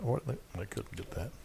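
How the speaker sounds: ordinary talk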